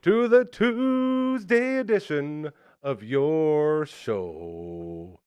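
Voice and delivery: big drawn-out announcer welcome; slow booming radio host intro; announcer opener. Acted. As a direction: stretch the welcome like a show host. Host's slow drawn-out show opener.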